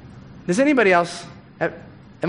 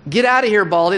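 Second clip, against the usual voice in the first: put-on kids' jeer said a little louder and higher; mock taunt repeated; 4 semitones higher, 4 dB louder than usual. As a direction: taunt him again, pushing harder. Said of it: "They say it twice".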